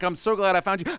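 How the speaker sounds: loud relieved outburst; relieved Mary. Pretend. Mary finds lost Jesus, loud relief. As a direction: blurt out relief at finding him. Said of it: "They're like".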